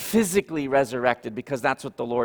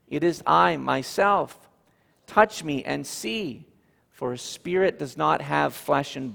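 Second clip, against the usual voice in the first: scripture reading. Acted. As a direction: read the passage with weight. Reads Luke scripture passage aloud.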